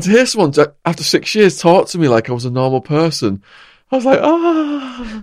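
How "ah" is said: sigh of relief. Retold or imitated. Relief at being treated kindly.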